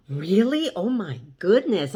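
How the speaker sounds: gasp, then gush with mild mock amazement; retold girlish group excitement, swooping pitch; excited reaction. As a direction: react as if thrilled for a new friend. Retelling friends' excited reaction.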